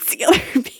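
high, quick quote breaking into laughter; retold line through giggles; laughing. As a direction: lose it laughing mid-quote. Cracks up voicing the breakup line.

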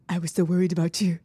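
lightly put-on French lover's accent. Friend mimicking the worried bodyguard, in a mock French accent. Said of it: "Was that your French accent?".

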